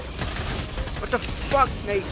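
slow unvoiced whisper; whispered curse. Real, not acted. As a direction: breathe the curse out in disbelief. Dismayed under breath.

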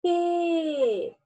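teacher modelling P; letter sound. Shown as a demonstration. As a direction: exaggerate the P sound. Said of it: "Fiz duas bocas".

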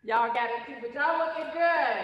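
Mississippi drawl. Shown as a demonstration. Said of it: "my Mississippi drawl and slang".

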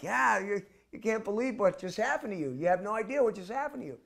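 high, loud, earnest; emphatic reply. Retold or imitated. The monk answers the boy, high and emphatic. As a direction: insist with enthusiasm. Narrator replies with enthusiasm.

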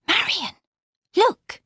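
high, urgent gasped warning; frightened alarm. Acted. Laura seizes Marion's arm at a dark figure, alarmed. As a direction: alert her in sudden fear, pitch leaping.

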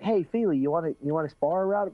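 a hyped gym partner inviting a spar; quoting Sage. Retold or imitated. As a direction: imitate an over-excited buddy. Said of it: "he was like".

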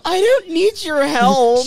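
slow, loud, defiant yell; defiant shout. Acted. Shouted defiant game line.

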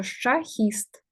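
шахіст drawn out slowly, syllable by syllable; careful Ukrainian pronunciation. Shown as a demonstration. Teacher drawing attention to the Ukrainian word шахіст, slow and careful. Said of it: "так українською".

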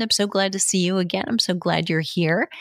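warm, fast, friendly welcome; smiling voice. Shown as a demonstration. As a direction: greet an old friend with a smile. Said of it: "I hope you could hear the smile in my voice".

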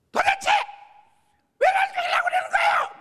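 high, loud shouted protest; defiant outburst. Retold or imitated. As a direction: shout up at God in outrage. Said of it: "막 이렇게". (하나님께 대드는 높고 큰 외침)

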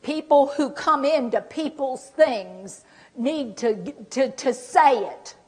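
slow, stretched-out huffy lecture; still angry. Acted. Acting offended person demanding to be asked, still angry. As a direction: make the point slowly, acting offended. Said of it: "'Cause I'm still angry".

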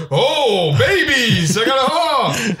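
playing the flustered kidnapper scrambling; frantic mock panic. Retelling the frantic dad grabbing babies, mock panic.

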